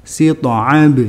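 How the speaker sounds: "Sito'ab" with heavy to and light bounced b; thick to, normal ba. Shown as a demonstration. Teacher models "Sito'ab" for students, heavy to, ordinary bounced b. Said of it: "Toknya tebal, baknya biasa".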